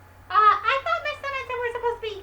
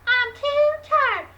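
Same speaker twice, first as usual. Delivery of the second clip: mock tired whine; 3 semitones higher, 5 dB louder, slower than usual. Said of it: "And she said".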